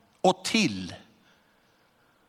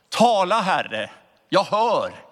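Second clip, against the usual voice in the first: said out into the room; 2 semitones higher, 3 dB louder than usual. Retold or imitated. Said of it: "så säg då rakt ut i rummet".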